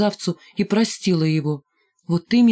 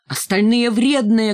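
shouting; 3 semitones higher, 3 dB louder, slower than usual. Acted. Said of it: "крикнула Ленка".

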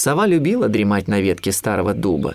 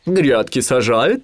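slow, higher owl question; inquiring owl; 4 semitones higher, 4 dB louder, much slower than usual. A narrator's reading. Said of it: "спросила сова". (сова, протяжный вопрос)

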